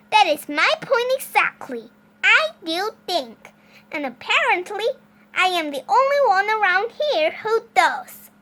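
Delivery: indignant neighbor. Acted. Exasperated neighbor argues with Mister Watson, high emphatic voice.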